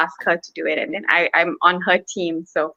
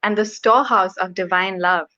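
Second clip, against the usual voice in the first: poem reading. Acted. Poet reading her poem about Lord Chaitanya, measured recitation. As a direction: read it line by line, with pauses after phrases.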